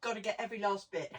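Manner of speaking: fast, slurping up the last bit. Real, not acted. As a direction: rush it out while slurping the dregs. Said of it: "excuse the slurping".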